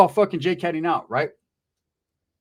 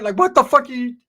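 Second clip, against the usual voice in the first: high voice; 8 semitones higher, 7 dB louder than usual. Retold or imitated. Ricky voiced in a story.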